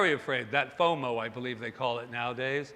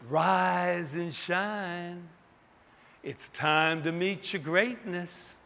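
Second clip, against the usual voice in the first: slow, tender rise and shine; slow, sweet morning call; grandma's gentle wake-up; 3 semitones higher, much slower than usual. Retold or imitated. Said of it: "she would say".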